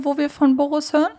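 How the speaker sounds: ordinary delivery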